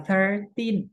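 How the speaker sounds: put-on thirteen with the stress on teen, ending falling. Shown as a demonstration. Teacher shows students the number, stress on teen. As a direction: lean on the second syllable, teen. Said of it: "tinnya ini harus ditekankan".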